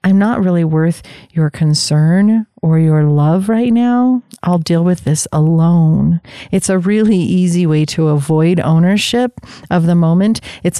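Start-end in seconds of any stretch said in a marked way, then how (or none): 0.0-6.2 self-dismissive. Retold or imitated. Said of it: "a way that we say".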